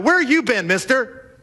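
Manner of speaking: a playful scold to a stranger; mock scolding. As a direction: needle him like he's clueless. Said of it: "they chew Jesus out".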